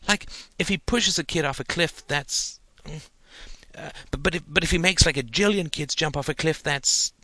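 put-on a boy rushing to explain his idea; excited little boy. A narrator's reading.

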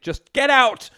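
high, urgent order; exasperated yell. A narrator's reading. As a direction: burst out impatiently at daughter. Mother urgently expels daughter.

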